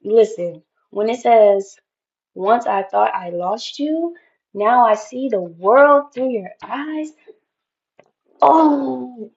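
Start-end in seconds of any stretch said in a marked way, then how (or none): 2.3-7.1 slow, louder, awed re-reading; real awe at the poem; moved and emphatic. Real, not acted. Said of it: "Oh my God, listen". 8.4-9.3 a tearful "Oh"; moved almost to tears; real tearful sigh; choked up. Real, not acted. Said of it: "I could fucking cry".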